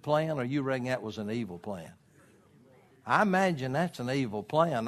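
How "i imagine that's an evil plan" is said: sarcastic. Real, not acted. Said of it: "I'm being very sarcastic when I say imagine".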